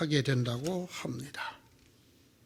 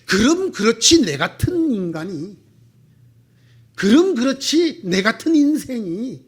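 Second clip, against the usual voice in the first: self-mocking cynicism; 4 dB louder than usual. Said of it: "자조하고 냉소하고".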